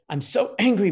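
hammed-up angry kid before calming; pretend angry child. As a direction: play the kid still fuming. Child voiced being soothed.

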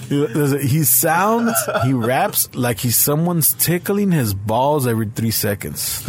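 slow, mocking English read-out, stretched; mocking comment read-out. Retelling the comment to his viewers, slow and mocking. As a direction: savour every word like you're teasing him. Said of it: "he sounds like he's".

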